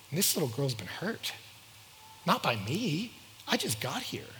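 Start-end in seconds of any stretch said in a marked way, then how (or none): 2.2-4.3 whispered aside. Real, not acted. Aside about the girl.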